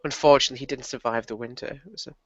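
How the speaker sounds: quiet, sinking into near whisper at the end; put-on crestfallen. Son feigning sorrow over his father's death, crestfallen and fading. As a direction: feign grief, letting the voice drop away. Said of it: "put on his best crestfallen look and says".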